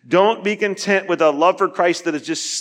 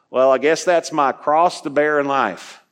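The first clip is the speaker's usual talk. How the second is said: put-on Southern accent. Preacher quoting people from his youth, light Southern accent. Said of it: "I don't know why the Southern accent".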